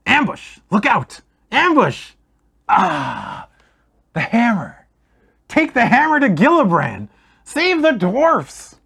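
wounded dwarf yelling about an ambush; delirious shout. Acted. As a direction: scream warnings in a fever. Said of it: "He again starts to shout".

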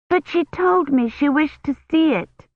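put-on a little girl rushing in to show her toy; child voice. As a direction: voice a small excited child. Little girl Agnes protests.

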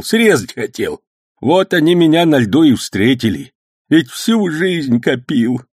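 put-on high, loud old man's complaint, sometimes slow; lamenting old man. A narrator's reading. Robbed old man complaining to his nephew, high and aggrieved.

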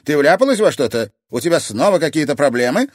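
anxious questioning; worried grandmother. Acted. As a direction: grill her granddaughter.

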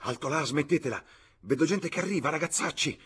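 high-pitched warning call; flustered clergyman scolding the lads; changed, urgent voice. A narrator's reading. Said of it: "la sua voce cambiò".

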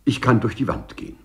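laughing through the words in disbelief; laughing scornfully. Acted. Lagrange laughing at the claim of walking through walls. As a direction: laugh it off as nonsense.

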